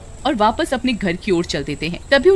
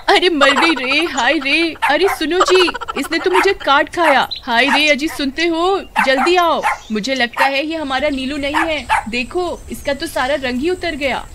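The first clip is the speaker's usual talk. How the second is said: high, wailing cry of pain calling her husband; bitten, crying out; 6 semitones higher than usual. Acted. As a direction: yelp and call out after the bite. Suman bitten, calls husband.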